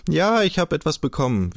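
officer stubbornly repeating his teasing line, falling insistence. A narrator's reading. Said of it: "wiederholte er dann eigensinnig".

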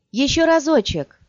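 high-pitched female archer's reply; eager insistence. A narrator's reading. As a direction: call back high, holding out. Archer refuses to flee, wants one shot.

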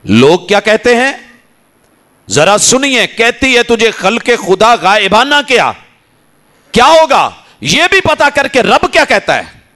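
high, ringing sermon climax; fiery preaching. Acted. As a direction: preach it out, lifted and urgent. Preacher rises to full force. (بلند آواز میں جوشیلا خطاب)

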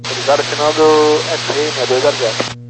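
crackly military radio. Real, not acted. Pilot readback over radio.

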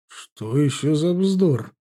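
slow, baffled scoff on вздор; a general dismissing nonsense, slowly; incredulous. A narrator's reading. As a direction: drawl out «вздор» in disbelief. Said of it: "удивился Брагин".

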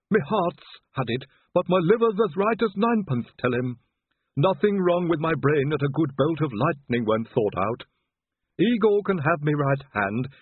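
high, odd voice of a dying servant; Igor. A narrator's reading. Dying Igor lists his organs.

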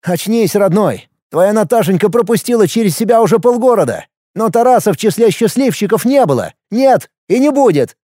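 high, heated harangue; agitated, scornful telling-off; exasperated tirade. A narrator's reading. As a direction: hammer the truth home, pitch climbing. Brother harangues him about his ex.

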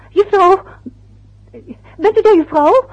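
loud, high call into the phone. Acted. Wife calls the vanished operator, loud high calling. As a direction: call out to check she is still there.

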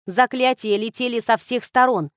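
ordinary delivery

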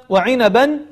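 وعنبا said unchanted as wa-inaban with a clear final n; clear tanween. Shown as a demonstration. Teacher pointing out the tanween, وعنبا with clear final n. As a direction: sound the n at the end of وعنبا, then stop. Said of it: "تنوين وهذه واو".

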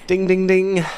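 high, loud ding-ding-ding; winner's bell. Acted. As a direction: imitate a game-show bell on one pitch.

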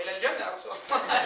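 light laugh in a quoted answer; mildly amused retelling; retold laughing reply. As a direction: quote it with a small chuckle. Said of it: "فضحك قال له".

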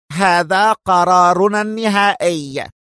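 slow, high, emphatic finality; very firm. A narrator's reading. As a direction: draw it out as an unbending decision. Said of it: "فأضاف هانز بحزم أكثر". (بحزم شديد)

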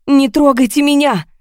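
high, loud desperate scream. A narrator's reading. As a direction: scream it in terror. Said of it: "заорала я". (отчаянный крик «Не трогайте меня!»)

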